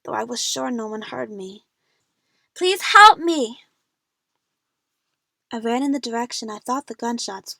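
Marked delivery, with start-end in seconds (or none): 2.5-3.6 slow, high, very loud plea; desperate cry for help. A narrator's reading. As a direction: draw out a frightened scream for help. Lost, calling out for help.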